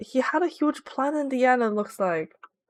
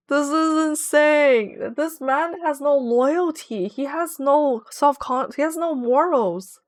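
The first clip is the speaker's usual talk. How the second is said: slow, drawn-out mock indignation; mock outrage; 4 semitones higher, slower than usual. Real, not acted. Streamer on a traitor, slow mock outrage. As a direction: spell out his crimes slowly.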